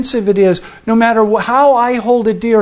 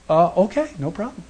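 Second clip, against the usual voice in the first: softer, fading to almost nothing on "no problem"; meek reluctant okay; 6 dB quieter than usual. Retold or imitated. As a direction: give in limply, voice dropping away. Meek owner handing over truck.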